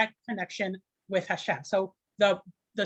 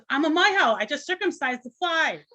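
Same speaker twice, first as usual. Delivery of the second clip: joke punchline voice; 5 semitones higher than usual. Retold or imitated. Jewish man answers the emperor, lightly voiced. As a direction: deliver the punchline in a lightly put-on voice. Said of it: "He says".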